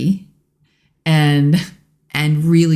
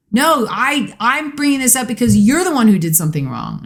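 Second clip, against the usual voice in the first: higher, quicker mock accusation; imitating defensive partner; 8 semitones higher than usual. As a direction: play the defensive partner insisting you're right. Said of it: "You wanna be the one that's like".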